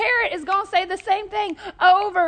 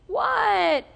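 higher-pitched irritated lady; exasperated reply; 5 semitones higher than usual. Acted. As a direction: answer the pest, voice raised in pitch. Lady answers the pestering parrot.

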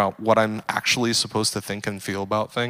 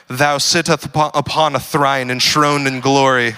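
mock pious prayer. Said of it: "they don't pray like anything like what they sound like".

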